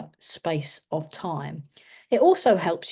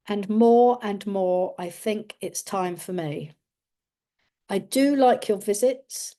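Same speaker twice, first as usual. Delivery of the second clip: put-on elderly person. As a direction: speak as a lonely old person, unhurried. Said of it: "just listen to what I've got to say".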